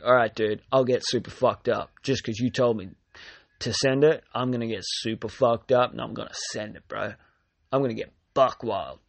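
lightly voiced hyped party bro; a touch of a wild bro; frat bro. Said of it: "that's like".

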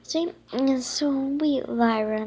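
slow, sighing tender words; a touch of a sigh. Acted. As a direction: sigh over the sick unicorn. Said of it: "Millie sighed".

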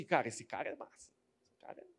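quiet admiring murmur that fades away; hushed admiration. Retold or imitated. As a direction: sigh it out like you're starstruck. Admiring quote fading.

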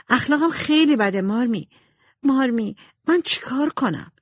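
put-on high, distressed voice of a remorseful girl; tearful confession. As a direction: plead with your mother, close to tears. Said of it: "با اشک و آه". (اعترافِ پشیمان با لحن گریان و زیر)

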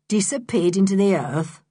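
mocking disbelief on "Disappeared into the earth"; scornful. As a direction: sneer the question back. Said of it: "rude and scornful noise".

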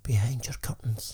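low, slow creepy whisper. Pretend. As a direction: whisper it like a lurking stalker. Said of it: "you creepy bastard".

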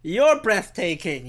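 slow, earnest movie-line delivery; Keanu quote. Retold or imitated. Telling loyal listeners they're breathtaking, slow and earnest. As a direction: stretch it out like a heartfelt compliment. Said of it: "what did Keanu say?".

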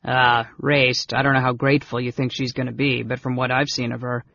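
doubtful big fellow, quick and rambling; deprecating big brother. Acted. Brother doubting the girl will be grateful, deprecating. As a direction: hedge in a hurried, hearty voice. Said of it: "a deprecating cough".

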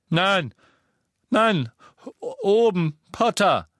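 desperate plea, voice cracking with fear; terrified old man begging; panicked cry. A narrator's reading. Xenophilius cries out in pain.

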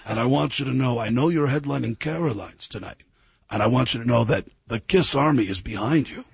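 a hint of a low Gene Simmons voice; lightly voiced rock star being earnest; lightly imitated Gene, supportive. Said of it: "This is Gene Simmons".

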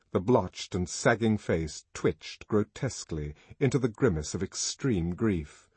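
usual speaking voice

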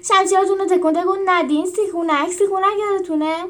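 shouted. Acted. Julius shouting at his team to regroup, loud. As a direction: call the troops back to order. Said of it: "داد زد".

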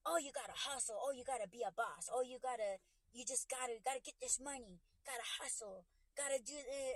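lightly imitating urgent hustle talk, run-on; mock hustler talk. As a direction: rattle off the slogans in mild mockery. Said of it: "you sound like a fucking meth head".

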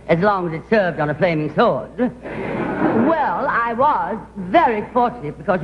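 gushing, theatrical society-lady voice; posh grande dame. Acted. Society actress chattering to cafeteria staff, posh and gushing. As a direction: play a grand actress slumming it, all airs.

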